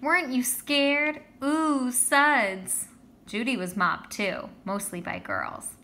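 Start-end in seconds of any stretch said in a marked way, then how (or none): 0.0-2.9 higher, louder, slower awestruck gush; awed kids. Acted. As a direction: swoon over the brave boy. Girls swooning over him.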